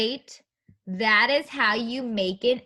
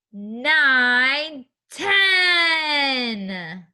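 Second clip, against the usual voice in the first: building count ending in an excited shout on ten; 3 semitones higher, 4 dB louder, much slower than usual. Shown as a demonstration. Teacher counting to ten with children, building to a shout. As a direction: climb the count and cheer the last number. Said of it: "So let's count to ten".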